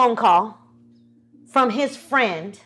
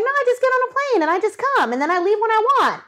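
mock carefree friend; 9 semitones higher, much faster than usual. Free-spirited friend voiced in story.

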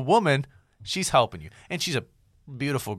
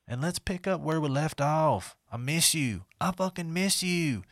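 put-on creepy older man. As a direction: read it like a lonely old guy, mildly. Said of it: "That's how that guy sounds".

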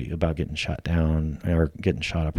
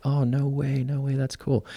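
wife amazed; 8 semitones higher, 3 dB quieter than usual. Retold or imitated. Wife reacting on speakerphone.

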